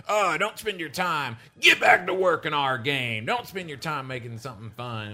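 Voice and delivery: mock complaining fan, lightly voiced; whiny gamer. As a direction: sneer it like a demanding forum poster. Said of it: "anybody in the community to be like".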